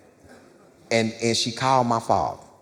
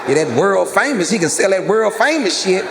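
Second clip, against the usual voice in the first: laughing; 9 semitones higher, 7 dB louder than usual. Real, not acted.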